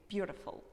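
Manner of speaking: "beautiful" with the T turned toward R; "beautiful" as "byoo-ruh-ful"; American flapped T. Shown as a demonstration. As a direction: tap the middle T of "beautiful". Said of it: "We transform this T in the middle".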